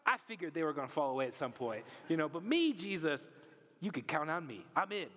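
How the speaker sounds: lightly voiced cocky disciple; cocky Peter. Peter assuring Jesus, lightly cocky. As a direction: brag about your own loyalty. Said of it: "He's like".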